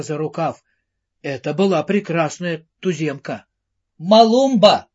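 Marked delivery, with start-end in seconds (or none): 4.0-4.9 high, loud, encouraging call; ободряюще, с улыбкой. A narrator's reading. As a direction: smile and cheer them on. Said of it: "произнесла она с ободряющей улыбкой". (звонко, с ободряющей улыбкой)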